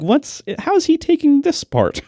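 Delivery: high-pitched wary wondering. Retold or imitated. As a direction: gauge it nervously, pitch lifted. Acts out his worried gauging.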